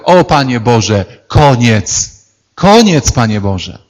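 prophet throwing up his hands; exasperated. Retold or imitated. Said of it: "mówi do Pana Boga". (prorok woła Bogu: dość, koniec)

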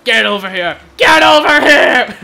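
Scorpion voice. Pretend. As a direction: bellow it like a fighting game ninja. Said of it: "I sound like Scorpion".

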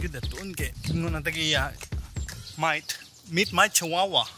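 ordinary talk

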